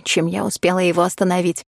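usual speaking voice

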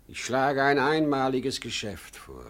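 excited pitch. Acted. Father pitches his deal excitedly.

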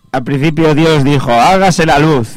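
slow, solemn ghostly intoning; voice from beyond the grave. Pretend. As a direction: intone it slowly like a ghost from the tomb. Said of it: "tienes que poner voz de ultratumba".

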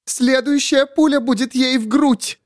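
high, strained threatening voice; menacing threat. A narrator's reading. Miriam threatening to shoot Grace, high strained.

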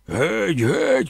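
a mild mock yell of get out; shouting. Boss throws mama out, mild mock yell. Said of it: "кричав він".

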